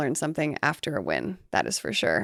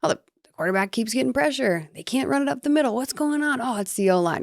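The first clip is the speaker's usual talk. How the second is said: lightly voiced exasperated fan, pitched up; higher-pitched griping of a fan watching; average fan; 6 semitones higher than usual. Host voicing an average fan watching the game, mock complaint. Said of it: "as, like, an average fan watching".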